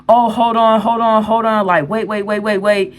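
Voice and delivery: high, hurried pleas to wait; urgent pleading. Retold or imitated. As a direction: beg her to wait, urgently. Girl trying to stop her.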